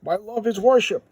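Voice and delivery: loud, high melodramatic proclamation; hammed-up vow of devotion; ardent declaration. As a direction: declare love grandly, acting it out. Thanos declares love for Death.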